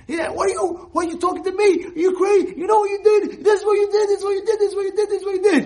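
loud, high furious yell; angry shout. Acted. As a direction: blast the offender in full rage. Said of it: "you see him screaming at you".

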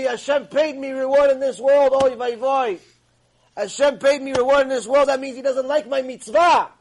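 loud, high-pitched mock wailing, no real sobs; imitated hysterical crying. Rabbi fears his reward is paid in this world, acted loud wailing. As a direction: wail it out as an acted lament. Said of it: "starts hysterical crying because he knows the truth".

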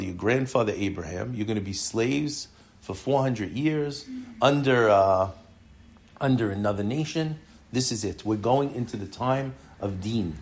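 low, subdued voice of a son confiding; hushed, low acted dread; retold tearful resignation. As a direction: quietly imitate a son's grave lament, no real sobs. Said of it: "he's crying because things are gonna be difficult".

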